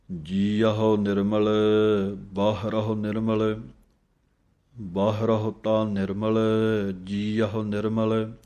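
slow, drawn-out Gurbani reading; scripture recitation. Shown as a demonstration. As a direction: recite it slowly, lengthening each long vowel. (ਠਹਿਰਾ ਨਾਲ ਗੁਰਬਾਣੀ ਪਾਠ)

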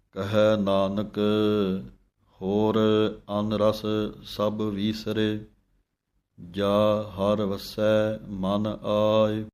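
slow chanted reading of the hymn; scripture recitation. Shown as a demonstration. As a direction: recite the verse slowly and devoutly.

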